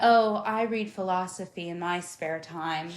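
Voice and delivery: slow, measured show-off reader; lightly put-on pretentious scholar, taking their time; mock intellectual. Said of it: "now you're the type of bitch".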